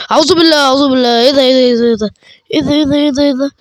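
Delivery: startled panic. Real, not acted. Jump scare in the game.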